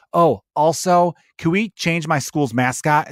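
mocking interjection. Podcaster mimics someone hijacking a movement with side issues, mocking. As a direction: butt in slowly, mimicking a tone-deaf tagalong.

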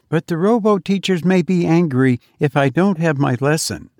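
put-on a boy begging for help on a big day; eager little boy. Johnny pleading with his mother, high and eager.

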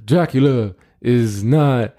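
Brando-style vampire voice with marbles in mouth; mumbled Godfather vampire; transylvanian accent. Acted. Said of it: "You gotta do the voice".

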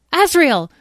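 high, excited cry of a name. A narrator's reading. Petra spotting a missing brother, crying out. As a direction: call up to someone just spotted. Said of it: "Petra cried out".

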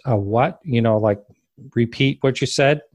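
mildly sarcastic retold disbelief. Police dispatcher doubting a UFO report, mildly sarcastic. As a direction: imitate a dispatcher's skeptical questioning. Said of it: "she was really sarcastic".

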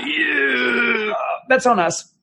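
high, loud happy yell; excited shout. Real, not acted. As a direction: cheer it out. Cheering at the ropes.

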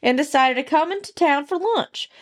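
redneck storyteller's twang; Southern redneck accent. Acted. Host restarts the deer hunting story, Southern accent. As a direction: spin the yarn in a Southern accent. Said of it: "I like the accent".

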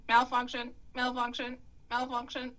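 flat repeated malfunction alarm; glitching robot repeating error; robotic error message. Acted. Robot glitches when caught.

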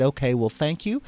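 lightly voiced Southern lady; polite Mississippi thanks; Mississippi accent. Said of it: "how's my Mississippi accent".

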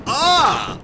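Drix scream. Acted. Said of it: "try to scream in the Drix voice".

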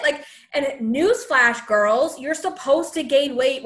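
sassy. Real, not acted. Lecturing the forum girls.

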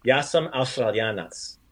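slow Croatian pronunciation. Shown as a demonstration. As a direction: give it a Croatian accent, slowly. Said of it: "give it some more Croatian".

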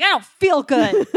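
high, whiny sick voice; whiny sick kid. Retold or imitated. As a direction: whine like a sick child. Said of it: "I was like".

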